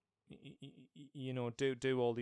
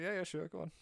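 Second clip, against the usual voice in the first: giggling, higher mock resignation; laughing through it; 7 semitones higher, 4 dB louder than usual. Retelling Santa's reply, laughing through it. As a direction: laugh the lines out. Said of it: "he's just like".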